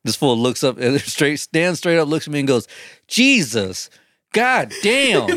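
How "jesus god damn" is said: imitated high-pitched exclamation; loud outburst. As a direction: climb high on the swear, imitating a loud cry. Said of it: "as high as he could go".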